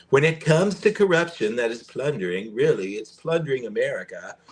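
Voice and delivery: a light, half-hearted Trump voice; reading his speech lines as Trump, barely; Trump impression. Host reading Trump's speech quote, in a faint Trump impression. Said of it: "I can't do a Trump impression".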